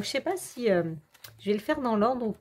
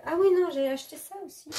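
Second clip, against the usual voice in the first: quick, high "oh right!"; suddenly remembering, fast and bright; sudden recall; 8 semitones higher, faster than usual. Real, not acted.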